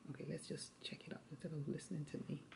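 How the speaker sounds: soft unvoiced whisper. Real, not acted. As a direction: whisper it like an aside. Tutor whispers aside to child.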